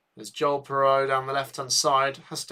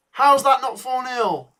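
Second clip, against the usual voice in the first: higher, louder, slower cry of disbelief, said once more; drawn-out howl of disbelief; disbelieving outburst; 10 semitones higher, 7 dB louder than usual. Real, not acted. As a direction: still can't believe the miss. Repeats disbelief at missed chance.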